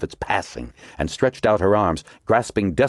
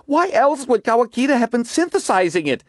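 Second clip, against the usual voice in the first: higher, insistent exclamation; crying out; 3 dB louder than usual. A narrator's reading. Margot insists to DeGosta, raised and insistent. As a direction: fire the question back at him. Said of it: "Margot cried".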